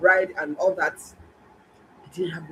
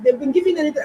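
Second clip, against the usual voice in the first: a hint of the nurses' offhand reply, pitched up; nurses' excuse; 9 semitones higher, 6 dB louder, faster than usual. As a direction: mimic the nurses lightly, higher. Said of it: "They were like".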